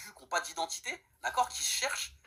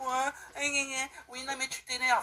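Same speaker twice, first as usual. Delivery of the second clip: small, high, timid, meek little voice; 6 semitones higher than usual. Retelling an opponent's reply in a debate: imitating a small meek voice. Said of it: "avec une petite voix de Dalpé".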